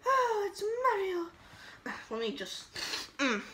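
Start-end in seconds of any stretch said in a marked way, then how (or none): 0.1-2.0 unimpressed. Acted. Deflated repeat.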